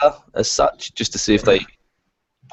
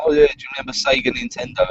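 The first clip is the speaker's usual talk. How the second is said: mock casual feeler. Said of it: "I'm like".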